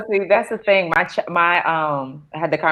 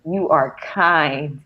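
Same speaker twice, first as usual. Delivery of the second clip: tender mom talk; 2 semitones lower, slower than usual. Pretend. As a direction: coo it slowly to a child. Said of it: "I'm like, "Baby".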